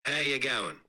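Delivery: a mate a few beers in at the pub, Aussie accent; drunk Australian. Shown as a demonstration. Host asks the AI to sound drunker, tipsy Australian accent. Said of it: "speak even more Australian, like you're intoxicated".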